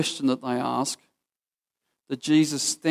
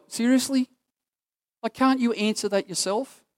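exasperated; 8 semitones higher than usual. Retold or imitated. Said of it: "And you're like".

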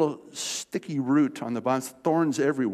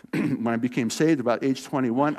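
ordinary talk, nothing marked

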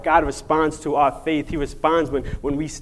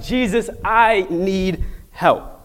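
slow, higher-pitched, each word weighted; acted plea; 5 semitones higher, slower than usual. Blind man unashamed before the crowd, pleading slowly. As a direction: draw out a heartfelt cry for help. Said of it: "He's just like".

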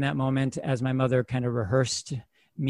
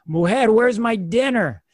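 slow, louder mock father demanding; higher mock husband calling for dinner; 6 semitones higher, 5 dB louder than usual. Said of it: "my father would bust in being like".

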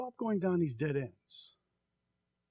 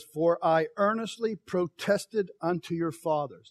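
prophet reading; 4 dB louder than usual. Acted. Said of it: "this is Jeremiah's voice".

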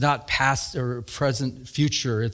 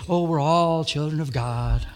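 mocking sing-song; 2 semitones higher than usual. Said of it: "they'll even say it that way sometimes".

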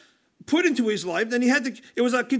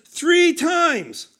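"Three times" pitched up and louder; stress on three times; 6 semitones higher, 4 dB louder than usual. Shown as a demonstration. Preacher stressing Paul's plea, "Three times" raised and loud. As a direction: punch "Three times" high. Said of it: "not once, not twice".

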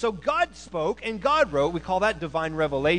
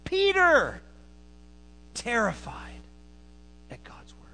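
hushed awe; 3 semitones higher, slower than usual. Acted. Preacher hushes the congregation on Peter's terror, whispering. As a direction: let it drop to a whisper on God's word. Dramatic sermon climax, whispered.

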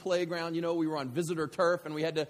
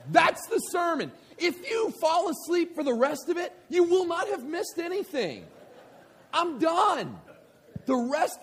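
much higher, louder preaching voice; full-force preaching; 8 semitones higher, 6 dB louder than usual. Acted. Preacher pressing his point on the congregation, forceful preaching. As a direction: drive the point home to the congregation.

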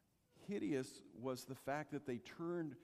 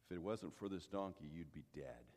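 stern angel; 12 semitones lower, 7 dB quieter than usual. Retold or imitated. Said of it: "And the angel said".

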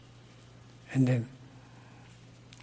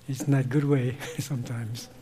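laughing; 5 semitones lower, 8 dB quieter than usual. Real, not acted. Laughing at own method.

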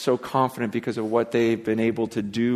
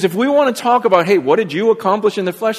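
higher, louder and fast; excited challenge; 8 semitones higher, 7 dB louder, faster than usual. Retold or imitated. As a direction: toss out the challenge with eager, quick energy. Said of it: "He goes".

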